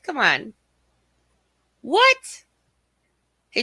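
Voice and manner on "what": very high-pitched, rising disbelief; incredulous. Real, not acted. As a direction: squeak it upward as a baffled question. Second reaction to the same news.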